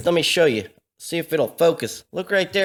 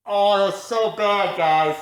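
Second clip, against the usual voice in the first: disgusted; slower than usual. Real, not acted. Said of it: "never smelt one quite that bad".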